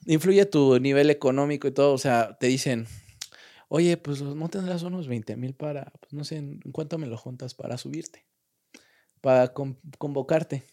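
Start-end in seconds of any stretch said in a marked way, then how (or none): 3.7-10.6 softly voiced, imitating a shady offer; mock discreet proposition. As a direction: float the bribe quietly, as if off the record. Imita una propuesta de soborno. (imitando una propuesta discreta, en voz baja)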